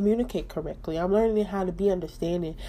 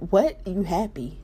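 mock disbelief; slower than usual. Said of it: "all these things just kept coming in my head".

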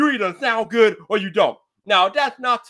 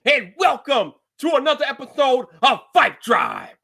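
higher-pitched, upbeat show-opener delivery; podcast intro; 4 semitones higher than usual. Acted. Host welcomes listeners to his tech podcast, announcer style.

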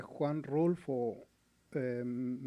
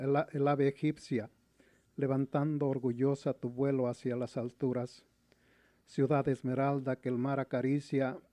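grand poetry declamation. Acted. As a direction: declaim the poem with pride. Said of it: "espero que les guste esta poesía que dice así".

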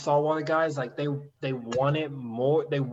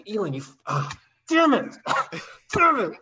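much higher and louder, a frustrated guide's yell; high loud mock yell from the boat; retold guide yelling; 8 semitones higher, 5 dB louder than usual. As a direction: blurt it out like a guide losing patience. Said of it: "yell at me".

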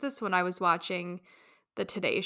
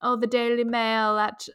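put-on British accent; 2 semitones higher than usual. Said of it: "Should I do this in a British accent?".

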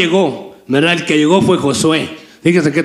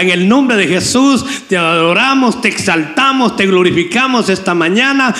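earnest pleading prayer over the flock; fervent prayer. Real, not acted. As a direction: pray it out steadily, calling on the Lord. Pastor prays over the church. (oración ferviente)

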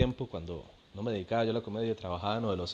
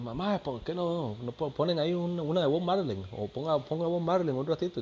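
put-on higher drunk buddy voice; mimicking the neighbor; 7 semitones higher than usual. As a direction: play the neighbor asking for music. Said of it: "y dicen".

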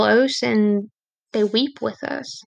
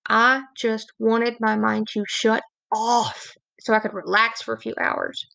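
ordinary talk

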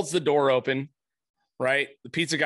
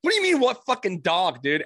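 retold disbelief; 4 semitones higher than usual. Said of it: "I'm like".

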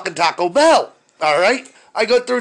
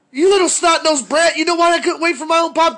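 raised, higher, louder scolding; angry father rant; 9 semitones higher, 4 dB louder than usual. Retold or imitated. Father fumes at his snotty daughter, scolding loudly. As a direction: scold the brat, pitch raised.

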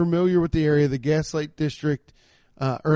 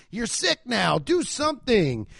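mock tag-you're-it line; 6 semitones higher, slower than usual. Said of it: "smack me on the ass and go".

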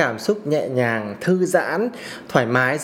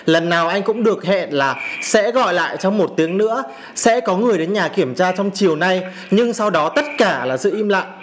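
angry; 3 semitones higher than usual. Real, not acted. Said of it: "cái cảm xúc của mình nó rất là dữ dội".

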